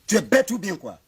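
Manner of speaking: loud, high outburst; angry scolding. Acted. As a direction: lash out at a fool. Chief scolds the father.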